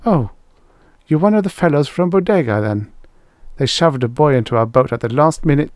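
put-on high-pitched, chatty girl's voice; friendly girl. A narrator's reading. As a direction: gossip companionably as a girl. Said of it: "her whisper was friendly enough".

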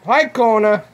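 high sing-song greeting; dog greeting voice. Real, not acted. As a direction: coo hello to the dog.

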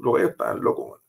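breathy whisper, almost to himself; whispered repeat. Real, not acted. Officer repeating it to the interviewer in a stunned whisper.

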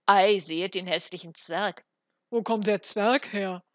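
loud jeering crowd call. A narrator's reading. Market crowd shouting about the ugly dwarf, loud calling out. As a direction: call it out for the whole street to hear. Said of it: "Überall hörte er rufen".

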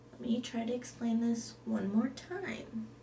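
ordinary talk, nothing marked

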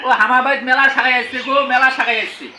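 Rangpur village speech, laughing a little; Rangpur dialect. Shown as a demonstration. Telling about many relatives in Rangpur dialect. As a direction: say it like home folks. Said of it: "আত্মীয় স্বজন আছে".

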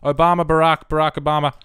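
frantic repeated calling; urgent calling. Real, not acted. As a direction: call the name over and over, urgently. Calling the game character urgently.

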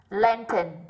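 "Lantern" slowly, stressed on "Lan"; first-syllable stress. Shown as a demonstration. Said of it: "âm một".

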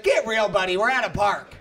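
low-key mock scolding; dismissive mom. Mom to the skater, dismissive. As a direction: put him down without raising your voice.

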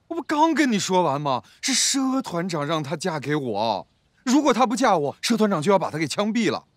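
exasperated explaining; irritated, emphatic reply; impatient. Acted. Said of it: "你咋这么不耐烦".

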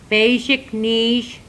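Basic niche spelled out slowly, stress on Basic; slow careful pronunciation. Shown as a demonstration. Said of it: "how to say fish".

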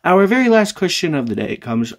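cracking voice mid-sentence; rough throat that keeps catching; frog in throat. Real, not acted. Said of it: "Can I please talk, voice?".

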